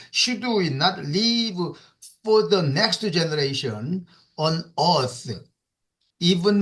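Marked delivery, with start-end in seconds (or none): 0.1-1.6 slow, weighted reading; teacher stressing the expression again; emphatic. Shown as a demonstration. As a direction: stretch out "Should we not leave" to emphasize it. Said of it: "emphasizing this, this expression".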